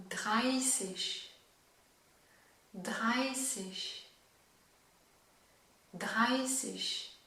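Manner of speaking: "dreißig" with a sharp S, "-ßig" like "sich"; German drill. Shown as a demonstration. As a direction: repeat "dreißig" clearly, falling each time. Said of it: "je vais te donner tous les chiffres". (« dreißig » avec un S net, répété)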